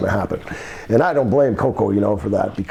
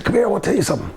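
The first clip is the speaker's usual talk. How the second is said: slightly put-on boss, higher pitch; imitated boss, higher and falling; boss beckoning; 7 semitones higher, much faster than usual. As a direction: lightly act a boss beckoning him over. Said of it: "He said".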